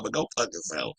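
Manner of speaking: soft sweet go fuck yourself; with love. Shown as a demonstration. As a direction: say it lovingly and softly. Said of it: "I say it with love".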